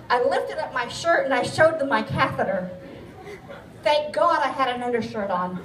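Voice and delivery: laughing through the words at her own story. Real, not acted. To the audience, recalling flashing her catheter, laughing. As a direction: chuckle as you tell the embarrassing bit.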